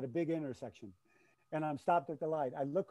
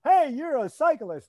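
high, loud and slow finish-line boom; booming announcer call; 10 semitones higher, 13 dB louder, slower than usual. Pretend. Calling out to a neighbor riding by, slow booming announcer voice. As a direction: stretch it out like calling a finisher home.

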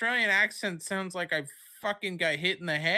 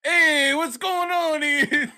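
much higher, louder, slow laughing tough-guy voice; Ray Liotta impression; 13 semitones higher, 11 dB louder, slower than usual. Ray Liotta voice for the Tommy request, shouted high and laughing. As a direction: bark it like a wiseguy. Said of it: "That's just Ray Liotta".

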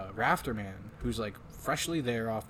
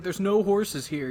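mock Texan drawl, higher and slow; impression of Cowboy; 8 semitones higher, 7 dB louder, slower than usual. Friend mocking the Texan recruit's complaint, high whiny voice. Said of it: "He says, like".

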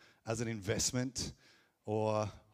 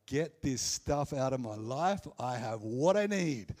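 louder, mock-eager outburst; building, delighted declaration; joyful eagerness; 5 dB louder than usual. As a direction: act out someone gladly clearing out their life. Acting out joyful selling of everything.

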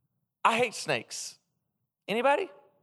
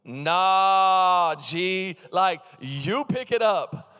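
refusing God. Pretend. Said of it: "And I'd be like".

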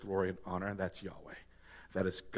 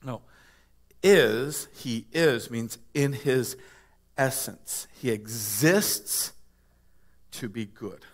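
usual speaking voice

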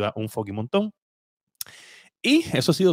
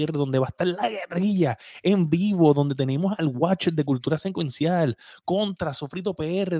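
wrestling promo announcer; 4 semitones higher than usual. Acted. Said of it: "Parece promo de lucha libre".

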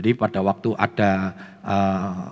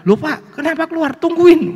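high-pitched indignant nurse, louder at the end; scolding nurse; 6 dB louder than usual. Retold or imitated. Nurse stops husband leaving the delivery room, mock scolding. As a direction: imitate a nurse ordering him back. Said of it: "Langsung susternya bilang".

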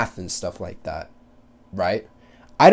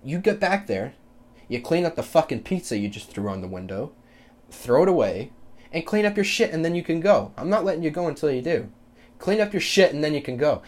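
stern scolding; 4 semitones higher than usual. Retold or imitated. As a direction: tell the kid off firmly, building to sharp bursts. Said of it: "you say".

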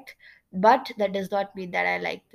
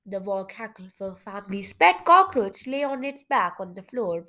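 measured storybook reading; storyteller setting the scene; story narration. A narrator's reading. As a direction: narrate the tale clearly and expressively. Reads story narration aloud.

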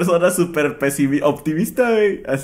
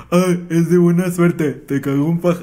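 mocking the saying; 3 semitones higher than usual. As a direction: parody the old wives' tale.

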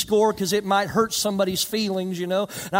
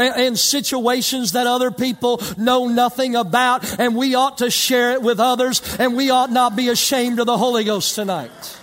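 raised, ringing preacher voice; full sermon cadence, pressing the point; preaching; 4 semitones higher, 6 dB louder than usual. Acted. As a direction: preach it out to the church. Preaching to the congregation.

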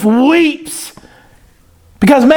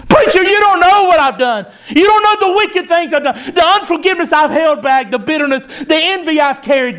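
lightly voiced congregant, pitched up in protest; 4 semitones higher than usual. Congregant confesses wicked things to the preacher, in pitched-up protest. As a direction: confess as a doubting churchgoer, starting high.

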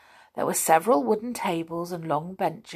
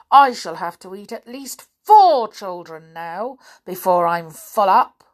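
greedy crocodile; 8 dB louder than usual. A narrator's reading. Crocodile brags about eating children.

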